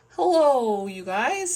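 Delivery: high, loud, hearty hello; jolly Daddy Pig greeting. A narrator's reading. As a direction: hail friends with a chuckling call. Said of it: "says Daddy Pig".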